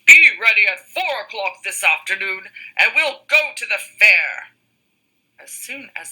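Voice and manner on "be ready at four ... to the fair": wolf invitation. Acted. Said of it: "called the wolf".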